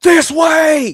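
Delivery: shrill, loud shout, pitched way up. A game master voicing a character calling to the players, yelling. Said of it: "He's yelling at you guys".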